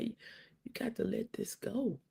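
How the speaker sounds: soft, slow, hushed imitation; retold whisper. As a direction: imitate someone murmuring advice in an ear. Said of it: "she whispered in my ear".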